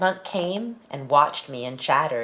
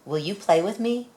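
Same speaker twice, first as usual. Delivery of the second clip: hopeful asking; 6 semitones higher than usual. Acted. Child asks animal to play.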